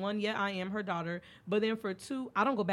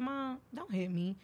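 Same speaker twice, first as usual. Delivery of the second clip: slow, even, measured warning; calm firm plea; 5 semitones higher than usual. Retold or imitated. Daughter calmly telling her mom not to hit her, slow and measured. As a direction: say it slow and steady, holding your ground. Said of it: "I said just like this".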